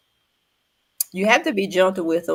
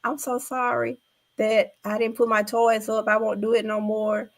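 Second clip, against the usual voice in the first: put-on apologizing child; 5 semitones higher than usual. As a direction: mimic a small child's sorry plea. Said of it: "she just started telling her mom".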